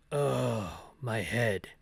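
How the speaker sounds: low character voice, dragged long oh. Attempting one character's voice, the speaker slips into another: Barry voice. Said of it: "that's Barry's voice".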